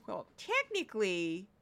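soft, fussy know-it-all quote; mock a pedant correcting someone, quietly; pedantic corrector. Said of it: "I can't just infuse".

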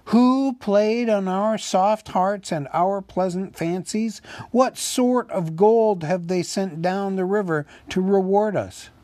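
high, indignant public oration; loud and clear. A narrator's reading. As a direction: ring out each accusing question to the crowd. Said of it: "spoke very loud and clear".

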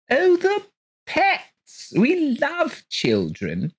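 high, delighted gushing cry; cried out. Acted. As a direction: exclaim with doting delight. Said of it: "cried Missus Colgate".

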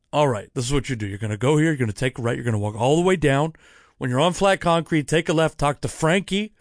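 put-on brisk old usher giving directions in an amateur Italian accent; bad Italian accent. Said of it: "do a very bad Italian accent".

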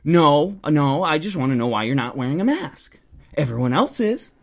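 imitated huffy scolding with a loud first word; mock indignant. Stranger demands to know about the mask, mock indignant. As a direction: play the busybody demanding an answer.

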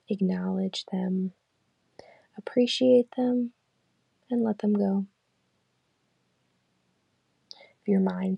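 calm, unhurried meditation guide; guided meditation. Acted. Leading listeners through a body scan, calm guided meditation. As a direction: lead them gently through the body scan, leaving long pauses.

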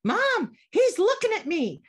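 put-on high, loud whiny kid tattling; whiny tattling little sibling. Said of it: "the drama of raising kids".

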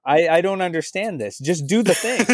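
rising exasperated coach voice; a hint of a baffled coach pleading; frustrated coach. Imitating Gretzky coaching frustrated.

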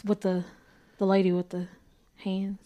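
hushed low whisper. Real, not acted. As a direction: drop to a whisper about her. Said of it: "why you whispering that?".

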